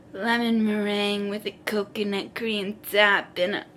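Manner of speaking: imitating a breathy, panting foodie. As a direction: pant out the dessert names. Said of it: "he's, like, panting".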